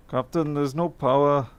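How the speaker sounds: half-hearted impression of a ship's engineer; Scotty.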